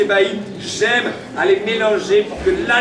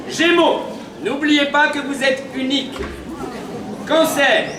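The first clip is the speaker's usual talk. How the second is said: town crier. Acted. Announcing horoscope messages.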